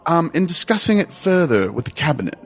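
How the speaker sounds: put-on British accent. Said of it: "We should just do it in British accent".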